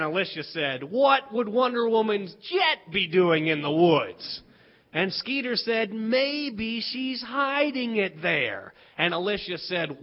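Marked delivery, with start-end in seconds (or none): 0.8-4.4 slow retort with "jet" punched; mock retort. Children's acted argument, Alicia retorts. 5.9-8.7 put-on drawn-out answer in a child's argument; slow mock retort. Children's acted argument, Skeeter answers.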